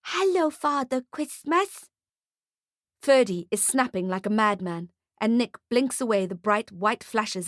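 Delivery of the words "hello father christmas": high, slow, swooning mother; drawn-out, smitten greeting. A narrator's reading. Mother greets Father Christmas on seeing him, swooning. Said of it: "she swoons".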